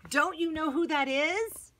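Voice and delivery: a thrilled discovery called out; excited. Acted. John excitedly tells Peter.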